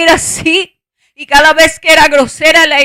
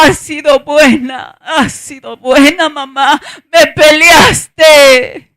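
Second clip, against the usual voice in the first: retold tearful gratitude; 4 dB louder, much slower than usual. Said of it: "luego me miró y me decía".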